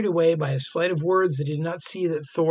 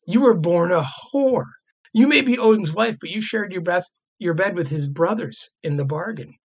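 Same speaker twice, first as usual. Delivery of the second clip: lightly hammed-up Loki taunting; mock angry insult; 2 semitones higher than usual. Loki taunting Frigg in the hall, mock scorn. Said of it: "shouted Loki".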